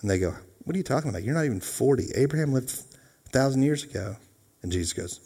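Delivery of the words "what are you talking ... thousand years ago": higher, hushed disbelief; incredulous scoffing. Acted. Jews challenging Jesus about Abraham, incredulous scoffing. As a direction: question it as plainly absurd, pitch lifted.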